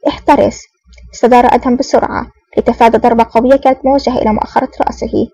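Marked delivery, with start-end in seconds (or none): 0.1-0.6 mild cry of warning, pitched higher. A narrator's reading. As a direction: call out a short warning, not truly shouted. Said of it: "صاحت منى". (صيحة تحذير خفيفة)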